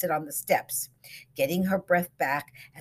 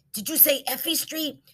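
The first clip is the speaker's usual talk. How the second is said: excited; 11 semitones higher than usual. A narrator's reading. Excited repeat.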